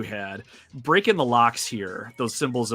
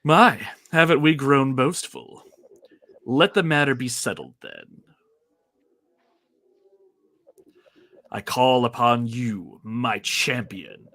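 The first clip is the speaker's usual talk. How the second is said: haughty villain; 5 dB louder, slower than usual. Acted. Reading villain's lines aloud.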